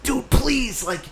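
high, excited gushing; gushing praise. Retold or imitated. Thanking the friend for the car job in a high excited gush. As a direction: pitch it up and rave about the car.

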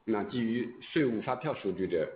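ordinary talk

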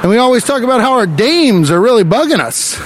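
hammed-up 1920s newsroom tough guy; 1920s dapper man. Comic playing a 1920s husband, hammed-up gangster voice.

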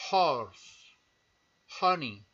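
"horse" and "honey" with the h as a puff of air; H aspirada; breathy English h. Shown as a demonstration. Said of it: "se suena soltando el aire".

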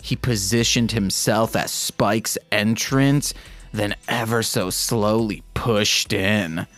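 steady read-aloud narration; calm fanfic reading; story narration. Acted. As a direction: read the story evenly, like an audiobook.

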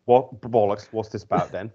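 lightly done mock British accent; a hint of hammy British; Lily's British accent. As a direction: put on a touch of fake British. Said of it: "the best British accent is Lily".

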